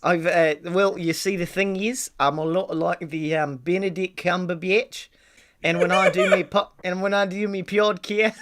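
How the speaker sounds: muddled mock Kiwi accent; put-on accent. Podcaster explains himself to interviewer, in a wobbly put-on accent. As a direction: play the podcaster in a fake Antipodean accent. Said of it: "why do you use an accent".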